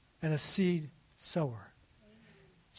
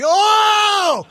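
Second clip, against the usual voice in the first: put-on high, loud squeal of girls; high excited scream; excited shriek; 14 semitones higher, 13 dB louder than usual. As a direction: shriek like a room of thrilled teens.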